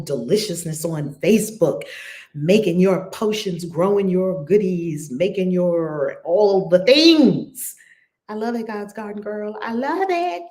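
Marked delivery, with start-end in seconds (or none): 2.3-7.8 loud, slow, gushing; louder, slower excited praise. Real, not acted. Gushing over viewer's posts. 9.6-10.4 high, excited; high excited I love it; delighted. Real, not acted. Gushing over viewer's work.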